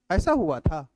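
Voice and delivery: ऐसा हुआ था put as a question; lightly questioning demo; questioning tune. Shown as a demonstration. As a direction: ask ऐसा हुआ था in mild disbelief. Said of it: "ये होता है प्रश्नवाचक".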